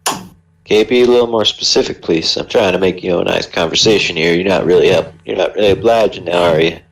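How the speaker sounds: a hint of a southern gent coaxing a stranger; southern accent. A traveler pressing the prisoner for details, light southern accent. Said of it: "Why have you gone southern?".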